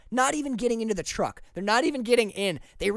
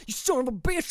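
put-on Alabama accent; 5 semitones higher than usual. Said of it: "This is my Alabama swearing voice".

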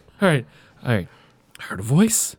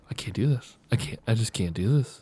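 mild distress; 3 semitones lower, 6 dB quieter than usual. Acted. Character breaking down again.

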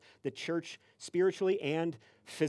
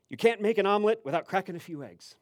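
higher, louder delivery of a saying; super serious stranger; 4 semitones higher, 5 dB louder than usual. Retold or imitated. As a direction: pronounce it like weighty wisdom. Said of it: "super serious".

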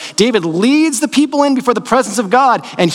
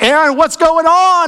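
a stern Moses voice, raised; Moses confronting Aaron; 6 semitones higher than usual. Retold or imitated. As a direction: call out like an exasperated Moses. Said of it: "He's like".

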